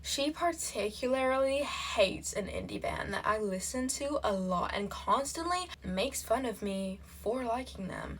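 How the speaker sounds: reading in a put-on American accent. Reading a relationship post aloud, put-on American accent. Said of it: "I'm gonna do this in American accent".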